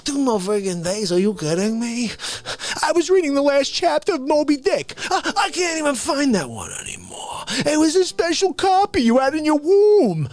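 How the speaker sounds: mock indignation. Acted quarrel with his mother.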